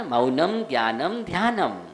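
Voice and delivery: मौनम, ज्ञानम, ध्यानम each closed on m; final m sound. Shown as a demonstration. Teacher summing up the anusvara rule, final m sound. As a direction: finish every word with lips shut on a held m. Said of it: "माँ में ही उच्चारण किया जाता है".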